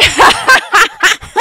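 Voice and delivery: high, loud burst of laughter; helpless high-pitched laugh. Real, not acted.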